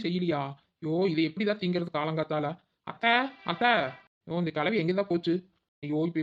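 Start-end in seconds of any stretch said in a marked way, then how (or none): 2.9-3.7 calling out. Acted. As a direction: shout for aunt across the house. Calls aunt through the house.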